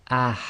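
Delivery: "ah" with a strong push of air from mid-throat; forceful ha. Shown as a demonstration. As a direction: breathe hard through "ah". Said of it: "a lot of air should come out".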